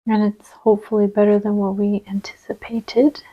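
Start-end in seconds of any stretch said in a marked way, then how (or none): 2.1-3.2 accidental British pronunciation; a word lapsing into British; British accent. Real, not acted. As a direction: slip briefly into a British accent. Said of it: "said that in a British voice".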